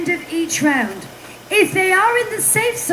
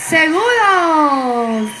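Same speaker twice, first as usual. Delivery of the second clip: drawn-out announcer call; 3 semitones lower, much slower than usual. Acted. Host declaring a couple safe.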